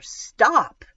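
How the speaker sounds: high, loud desperate shout. A narrator's reading. Lily shouting over Mom's talk with Sam, desperate shout. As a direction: shout it with full urgency. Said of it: "so I shout louder".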